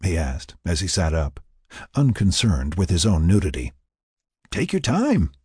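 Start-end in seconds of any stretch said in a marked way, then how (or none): 4.5-5.3 high, lilting, amused assent; smiling agreement. A narrator's reading. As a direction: agree with an audible smile. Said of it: "Tony agreed, still smiling".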